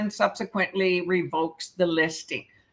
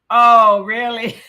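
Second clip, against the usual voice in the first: mock surprise; 3 semitones higher, 10 dB louder, slower than usual. Mock reaction to a joke.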